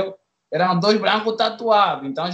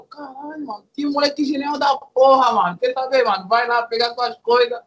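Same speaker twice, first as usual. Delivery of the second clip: amused cop; 3 semitones higher than usual. Retold or imitated. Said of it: "e começou a rir".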